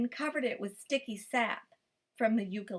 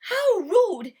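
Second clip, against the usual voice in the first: higher, louder outrage; indignant cry; 9 semitones higher, 9 dB louder than usual. A narrator's reading. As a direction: snap it indignantly. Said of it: "he cried".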